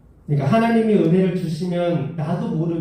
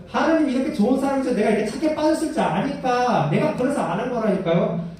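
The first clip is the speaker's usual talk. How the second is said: arguing complaint; 6 semitones higher than usual. Retold or imitated. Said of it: "따지는 거야".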